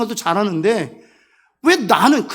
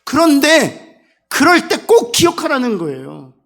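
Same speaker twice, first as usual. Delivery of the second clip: louder, rising fervour; preaching at full force; 5 semitones higher, 6 dB louder than usual. Acted. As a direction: drive it home to the congregation. Preaching climax. (회중에게 열정적으로 외치는 설교)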